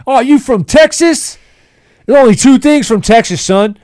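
high, loud barking drill sergeant bellow; drill sergeant impression. S0 imitating the Full Metal Jacket drill instructor, bellowing. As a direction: yell it like a Marine drill sergeant. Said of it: "He's like".

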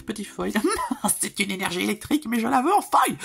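laughing. Real, not acted. Laughing at his own wish.

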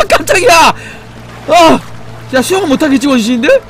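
loud high startled shouts; shaken yelling. Real, not acted. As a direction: yell it out, still scared. Still reeling from jump scare.

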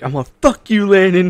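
high, loud mock rage; angry yell. Replaying his rant video at Landon, mock yell. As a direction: shout it like a gamer rant.

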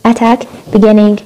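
attack and beginning slow, single consonants, no doubling; slowly, no shadda on t or n; correct attack and beginning. Shown as a demonstration. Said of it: "مش beginning".

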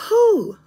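big relieved breath out; pushing out a breath to calm down; exhale whew. Real, not acted. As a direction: let out a high whew. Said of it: "breathe, Tanya".

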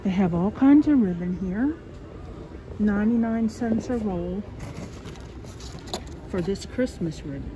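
talking through a face mask; muffled, mask over mouth. Real, not acted. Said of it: "I'm gonna sound a bit muffled".

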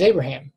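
Abraham said the familiar way, AY-bruh-ham; Abraham with a long A at the start; common pronunciation of Abraham. Shown as a demonstration. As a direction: say Abraham as most people do, three syllables. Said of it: "some people pronounce Abraham's name".

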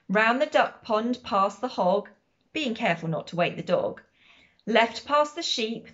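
measured, rhythmic picture-book narration; storybook read-aloud with a steady bounce; reading to children. A narrator's reading. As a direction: read the rhyme out clearly for little listeners.

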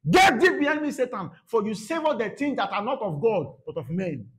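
forceful scriptural rebuke; stern rebuke. Acted. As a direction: rebuke with full authority. Jesus rebuking Peter, quoted forcefully.

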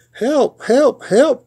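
high-pitched mock cries for help; small truck voice, calling out in distress; crying for help. A narrator's reading. Little Blue Truck stuck in mud, high cries for help. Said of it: "cried the Little Blue Truck".

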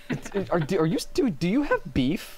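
shouting. Real, not acted. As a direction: shout at the chat. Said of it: "yelling at chat".

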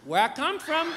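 put-on high little-child voice repeating itself; little girl. Daughter repeats her question to dad.

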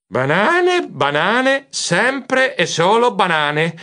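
high, drawn-out weary lament; sighing. Acted. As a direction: sigh out each word, fed up. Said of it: "Io sospirai".

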